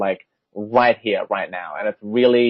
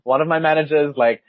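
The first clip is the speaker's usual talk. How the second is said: mildly flustered retold apology; totally thrown; 3 semitones higher than usual. Worker explaining the mistake to a caller, mildly thrown. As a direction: backpedal with a slightly embarrassed laugh. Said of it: "I was, like, totally thrown".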